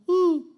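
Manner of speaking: short high "uh" whoop; mock cry of joy. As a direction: give an obligatory little cheer. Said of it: "Grito de júbilo".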